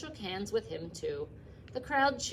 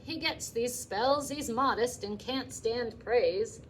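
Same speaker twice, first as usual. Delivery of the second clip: flustered excuse; 4 semitones higher, 4 dB louder, slower than usual. Acted. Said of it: "cried Mister Zuckerman".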